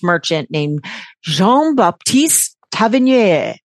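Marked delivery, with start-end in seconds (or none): 1.2-3.5 put-on a light French accent on the name. Telling the hosts about a French merchant, a light French accent. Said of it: "Did you see I did that French accent?".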